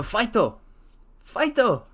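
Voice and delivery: high, loud playful rallying cry; playful fight-o cheer; mock cheer. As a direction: cheer them on like a sports fan. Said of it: "cheering the bushes".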